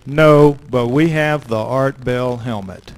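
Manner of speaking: firm, confident reply with a loud opening no; with authority. Retold or imitated. Bluffing past the guard at the gate, firm and authoritative. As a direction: bluff it out like you own the place. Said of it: "I say it with just such authority".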